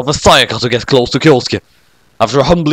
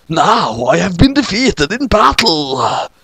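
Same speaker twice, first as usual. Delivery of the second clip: mild mock whine; 5 semitones higher, slower than usual. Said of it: "Mister Bacon whined".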